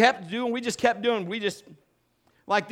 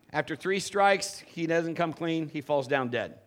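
ordinary talk, nothing marked

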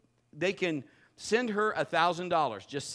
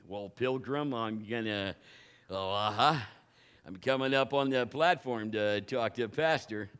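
lightly voiced old-west cowboy; a hint of a movie cowboy strolling up; 5 semitones lower than usual. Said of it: "Rod's got his cowboy walk on".

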